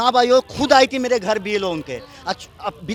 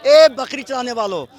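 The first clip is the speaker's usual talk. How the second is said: Lalu's rallying call; 2 semitones higher than usual. Retold or imitated. Supporter recites Lalu's dialogue for the reporter, calling out. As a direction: lightly imitate a leader hailing villagers. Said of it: "dialogue भी उनका याद होगा".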